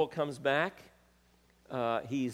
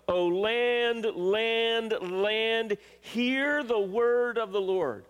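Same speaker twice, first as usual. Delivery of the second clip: high, loud, drawn-out repeated cries; emphatic proclamation; 9 semitones higher, 6 dB louder, much slower than usual. Acted. God cries to the land through the preacher, emphatic proclamation. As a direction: call out each word at full preaching force. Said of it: "I am emphatic about this".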